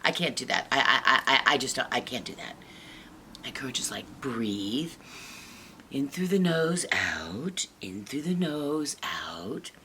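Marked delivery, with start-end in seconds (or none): 0.0-2.6 mildly panicked, stammering refusal; nervous refusal. Acted. Shy Sam runs behind Courage, nervous stammering. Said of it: "she gets all nervous and she starts shaking". 4.2-9.7 calming breathing coach. Acted. Courage calms nervous Sam, soothing breath coaching.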